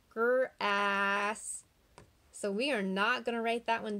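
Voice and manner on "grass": Grass with a long drawn ah; stretched ah sound. Shown as a demonstration. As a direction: let Grass ring out so the ah is heard. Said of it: "I hear ah".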